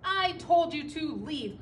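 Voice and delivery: a touch of exasperated crying out; cried out. A narrator's reading. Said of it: "cried Bear".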